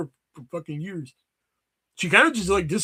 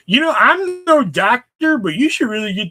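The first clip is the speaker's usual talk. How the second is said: mock concern; 4 semitones higher, 8 dB louder than usual. Sarcastic mock advice to friend.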